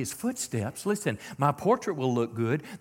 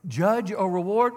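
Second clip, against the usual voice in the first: forceful warning; 6 semitones higher, 7 dB louder, slower than usual. Real, not acted. Preacher warning of judgment.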